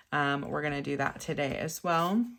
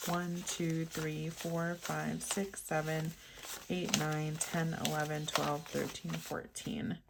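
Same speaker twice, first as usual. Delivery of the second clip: quiet counting; 6 dB quieter, slower than usual. Real, not acted. Counting ones under her breath.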